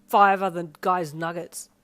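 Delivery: loud, slow mock outrage. A narrator's reading. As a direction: drag it out, playfully offended.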